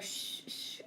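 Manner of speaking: soft whispered shh, no voice; shushing whisper. Retold or imitated. Logan hushing the others at the pond, whispered. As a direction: hush everyone like a kid at the pond.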